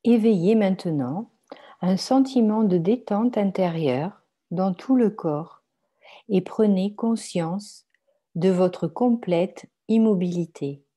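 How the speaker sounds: calm, measured relaxation guidance; guided meditation. Acted. Guides a yoga nidra meditation. (méditation guidée, lente et paisible)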